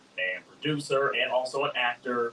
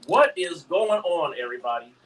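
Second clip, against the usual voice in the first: radio host intro; 4 semitones higher, 4 dB louder than usual. Shown as a demonstration. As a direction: announce it like a show host. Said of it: "Let me try that again".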